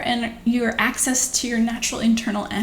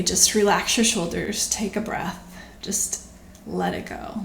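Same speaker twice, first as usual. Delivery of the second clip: softer and softer, fading to a whisper on let it go; calm guidance; 2 semitones lower, 4 dB quieter than usual. Retold or imitated. Quoting a teacher guiding you to release tension, softening to a whisper. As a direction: ease them down gently, trailing off. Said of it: "Michael Singer would say".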